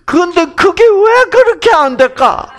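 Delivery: high laughing voice, slowed at first. Real, not acted. Preacher to congregation, laughing high at his stubbornness. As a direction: laugh through the words at your own failing.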